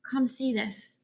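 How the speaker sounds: hushed whisper. A narrator's reading. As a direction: breathe it out in a whisper. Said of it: "she whispers".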